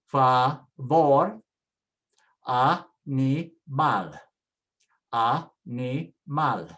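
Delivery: Favor and animal split into slow, separate syllables; stress on last syllable. Shown as a demonstration. Teacher drills the rule, stressing Favor and animal on their endings. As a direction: say Favor, animal slowly, landing on VOR and MAL. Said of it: "Everything is on the last syllable now".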